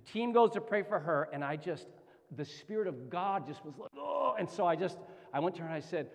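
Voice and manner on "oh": high drawn-out "oh"; retold awed "oh". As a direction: let a high "oh" swell out. Spirit comes on him, retold.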